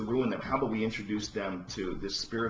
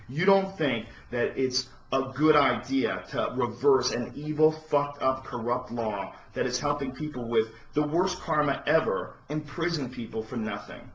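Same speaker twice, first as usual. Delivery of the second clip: louder, rising outrage against the president; indignant rant; 3 semitones higher, 3 dB louder than usual. Real, not acted. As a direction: hammer each question with disbelief. Ranting back at the president.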